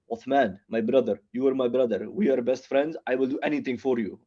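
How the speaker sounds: put-on lightly accented English, earnest declarations of brotherhood; passionate immigrant friend, accented. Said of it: "like, a passionate friend".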